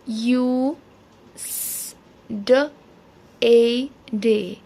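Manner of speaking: यू held long, स as a bare hiss, then ड, ए, डे; यू, स, ड, ए, डे with a pause after each sound; sounding out Tuesday. Shown as a demonstration. Teacher breaks Tuesday into phonics sounds, one by one. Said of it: "U E makes U".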